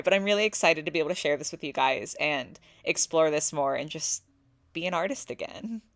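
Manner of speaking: fighting tears. Real, not acted. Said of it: "I'm, like, trying not to cry".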